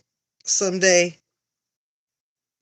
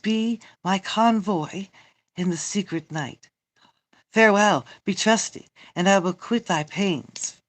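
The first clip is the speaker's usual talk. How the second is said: emphatic, declaimed stage dialogue; theatrical Shakespeare reading. Acted. Reading Romeo and the nurse aloud, theatrical. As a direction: play it out like verse on stage.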